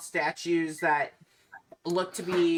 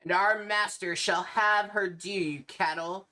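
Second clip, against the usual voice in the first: vampire noble voice. Acted. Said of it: "the one in the center".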